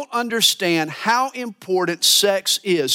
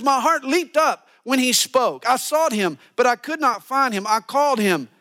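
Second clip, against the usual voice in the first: lovesick bride; 7 semitones higher than usual. Retold or imitated. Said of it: "She says".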